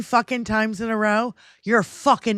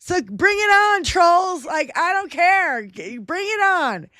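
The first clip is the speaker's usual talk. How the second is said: defiant dare; 6 semitones higher than usual. Real, not acted. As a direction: dare them to come on. Daring trolls.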